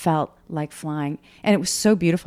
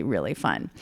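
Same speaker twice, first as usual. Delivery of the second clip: ordinary talk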